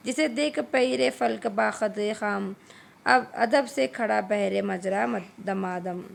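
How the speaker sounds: measured couplets, each falling away at the end; poem recitation. A narrator's reading. Teacher reciting a masnavi to tenth-class students, measured recitation. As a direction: recite Urdu verse line by line.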